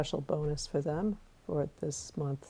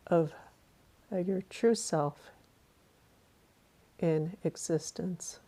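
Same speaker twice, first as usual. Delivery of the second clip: guided meditation. Acted.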